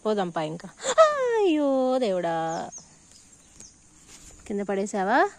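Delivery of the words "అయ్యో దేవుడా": slow drawn-out oh god; exaggerated dismay. Real, not acted. Toddler drops the flower.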